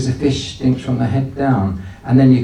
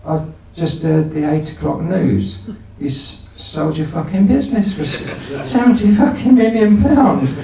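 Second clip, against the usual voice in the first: amazed tenant; 5 semitones higher than usual. Retold or imitated. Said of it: "He says".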